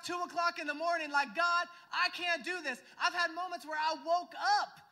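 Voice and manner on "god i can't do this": cried out. Retold or imitated. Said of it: "I cried out to God".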